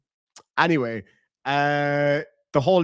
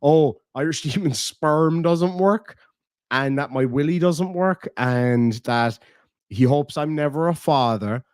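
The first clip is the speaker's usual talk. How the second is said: mocking him; slower than usual. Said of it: "talking about how".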